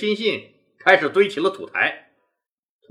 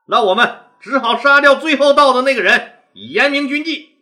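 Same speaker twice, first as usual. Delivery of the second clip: stern rebuke; 4 semitones higher, 5 dB louder than usual. Acted. Leader scolds latecomers grimly.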